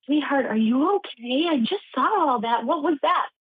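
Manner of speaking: a hint of a fussing old lady; little old lady. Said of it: "some little old lady came over".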